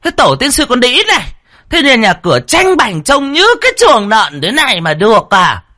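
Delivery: put-on very high, loud shrieking scold of an old wife; shrill scolding mistress. First wife yelling for the maid Mì, very high and loud. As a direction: screech at the servant from across the house. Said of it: "chua loen loét xa xả".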